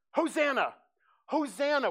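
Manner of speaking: high, loud festival cry of Hosanna; crowd shouting. Retold or imitated. Festival crowd crying out to God, loud shout. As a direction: call it out like a crowd in the temple. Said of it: "they begin shouting".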